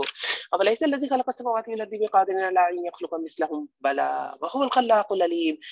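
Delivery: brisk Arabic verse recitation; Quran recitation. Acted. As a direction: recite the verse in a quick chant.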